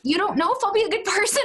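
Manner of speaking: put-on high, childlike hurt question; high child voice asking; young son. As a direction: play a small boy, wounded. Voicing her young son.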